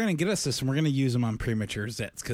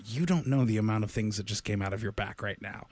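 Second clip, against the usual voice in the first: in wonder; 3 semitones lower than usual. Retold or imitated. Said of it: "Like, in wonder".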